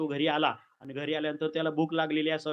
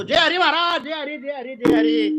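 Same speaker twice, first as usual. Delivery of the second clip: higher, louder devotional greeting; reverent greeting; 8 semitones higher, 7 dB louder than usual. Retold or imitated. Indra bowing to Narad, greeting him eagerly. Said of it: "Indra ... नमस्कार करतो".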